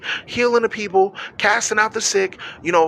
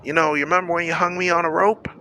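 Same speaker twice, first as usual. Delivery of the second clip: mock cheerful greeting. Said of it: "I'm gonna be smiling".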